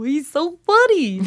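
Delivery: high, slow, laughing. Real, not acted. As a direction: say it while cracking up. Laughing at own pick.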